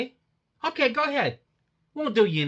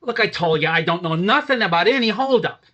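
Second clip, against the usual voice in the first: loud angry denial; 6 dB louder than usual. Acted. Suspect denies the holdup.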